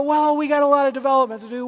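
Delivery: quick, deflating sigh of a line; discouraging leader talk. Shown as a demonstration. Pastor showing the wrong way to talk to a leader, deflating. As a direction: brush the leader off with a heavy sigh. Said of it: "you don't go".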